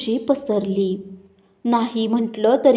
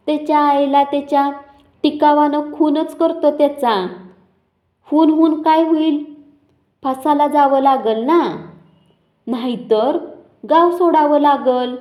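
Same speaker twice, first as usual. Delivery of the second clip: enraged father vowing revenge with a pickaxe; flaring rage; 4 semitones higher than usual. Acted. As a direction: spit out the threat like a man ready to kill. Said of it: "नरसूही पेटला".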